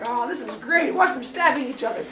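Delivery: amused father. Acted. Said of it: "He's like".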